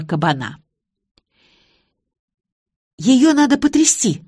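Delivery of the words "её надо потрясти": high, louder squeaky cry; squeak. A narrator's reading. Lori eagerly suggests shaking the dog, squeaking high. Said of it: "пискнула Лори".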